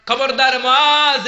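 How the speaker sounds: slow, loud, high warning; stern warning. Acted. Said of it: "ধমক দিয়ে বললেন". (ধীরে, জোরে কড়া হুঁশিয়ারি)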